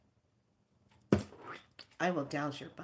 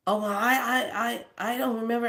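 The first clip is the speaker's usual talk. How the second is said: imitating a caught-out man, high and stuttering; flustered stammer; 6 semitones higher, 4 dB louder, faster than usual. Key guy caught lying, flustered stammering imitation. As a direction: stammer it high, as a mocked excuse.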